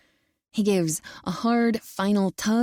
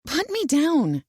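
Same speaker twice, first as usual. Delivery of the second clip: higher, half-hearted protest; half-hearted demand; 7 semitones higher, 3 dB louder than usual. A narrator's reading. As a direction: demand without meaning it. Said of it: "no real conviction behind the demand".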